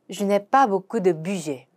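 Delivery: slow French, "pas" stressed; careful teaching read; slow demo pronunciation. Shown as a demonstration. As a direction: model slowly. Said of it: "avoir 동사 사용해서 물어봅시다".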